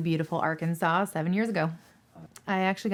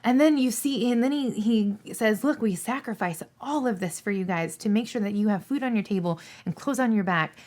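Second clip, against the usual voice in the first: real emotion, voice riding higher; fighting back tears; 4 semitones higher, 3 dB louder than usual. Real, not acted. Dispatcher telling of drivers away from families, tearful. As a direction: push on through the urge to cry. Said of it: "I'm gonna start crying now".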